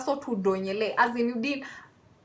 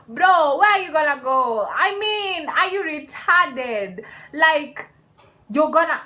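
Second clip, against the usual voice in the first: loud, higher, outraged disbelief; incredulous outburst; 5 semitones higher, 5 dB louder, slower than usual. Real, not acted. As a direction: let it burst out in disbelief. Outraged at friend's plan.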